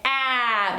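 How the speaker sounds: a clear open "ah" held briefly; modelling the vowel "ah" for a toddler; ah vowel demo. Shown as a demonstration. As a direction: say "ah" slowly for the baby to copy. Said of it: "you're gonna say".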